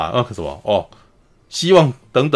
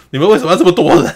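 fast, higher and louder angry outburst; angry demand; 6 semitones higher, 5 dB louder, faster than usual. Retold or imitated. Young shogun angrily scolds the crowded council. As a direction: snap at them, fed up and fast. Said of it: "就很生气说".

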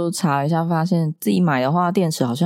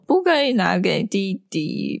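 imitated crying child; 3 semitones higher, slower than usual. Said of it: "就边哭边说".

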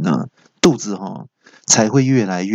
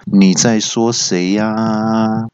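slow, looming question down the line; the boss overhearing, drawn out; slow manager's voice on the phone; much slower than usual. Retold or imitated. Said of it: "传来一个男生的声音".

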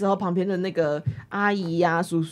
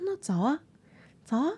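softer, calm, steady answer; calm reply; 2 semitones higher, 6 dB quieter than usual. Retold or imitated. Narrator answering the angry stranger, calm and soft. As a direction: stay cool while he rants. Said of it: "我就很冷静".

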